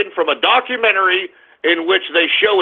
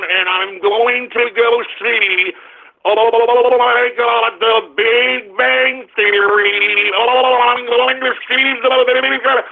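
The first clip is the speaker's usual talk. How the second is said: mock computer voice; 3 semitones higher, slower than usual. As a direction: play a glitching voice box shutting down. Mock robotic Hawking voice shutting down.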